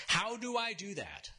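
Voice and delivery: high-pitched mock yell, no real volume; imitating a bewildered shout; retold yell back. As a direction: call it out high, as if over machinery. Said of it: "I yelled back".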